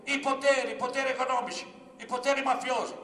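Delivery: loud, high rally oratory; Capanna's shouted speech. Retold or imitated. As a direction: shout it to the whole assembly, hammering each phrase. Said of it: "poi gridò a tutti". (comizio gridato a gran voce)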